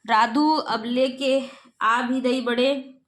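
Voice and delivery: slow, drawn-out call for the servant; calling out impatiently. Acted. Uncle calls Radhu to bring the snacks, slow impatient call. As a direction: stretch the words out, hurry him up. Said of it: "Radhu को आवाज़ देता है".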